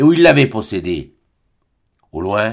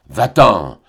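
raising her voice; 4 semitones lower, 4 dB louder than usual. Acted. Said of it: "haussant à la voix".

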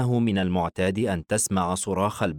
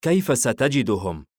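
mildly puzzled, pitched up; 4 semitones higher than usual. A narrator's reading. Hayeem asks the father how he will find them, puzzled. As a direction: ask it with a touch of wonder. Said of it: "حاييم باستغراب".

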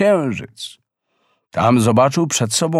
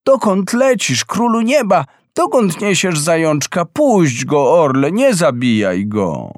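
high, pleading call up to the sky; 4 semitones higher than usual. Acted. Boy calling to the eagle to spare the hare, high plea. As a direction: call up to the eagle, begging it to let go. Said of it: "Podniósł ręce do góry i zawołał".

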